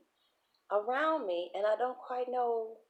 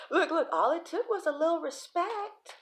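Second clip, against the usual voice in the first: high-pitched amused exclaiming; laughing revelation; 9 semitones higher than usual. Acted. Reader joking about winning over Leos, high and laughing.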